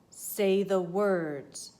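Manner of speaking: loud, very slow command; loud insisting. A narrator's reading. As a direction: press him to speak. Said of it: "said the ape man, repeating".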